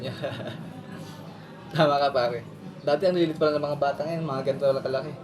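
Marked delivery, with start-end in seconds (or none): 0.2-1.7 soft breathy laugh; teasing chuckle. Acted. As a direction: chuckle after a little joke. Laughs after teasing the children. (mahinang tawang pabiro)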